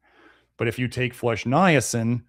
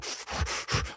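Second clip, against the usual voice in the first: heavy sigh; 12 dB quieter than usual. Retold or imitated. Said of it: "And he'd be".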